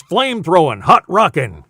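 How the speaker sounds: punchy radio announcer voice; radio station slogan. Acted. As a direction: hit it like a rock station ID. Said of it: "Used to be a station I worked at".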